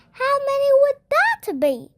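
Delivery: a cheery school nurse asking; lightly voiced friendly nurse; Missus Cooney voice. A narrator's reading.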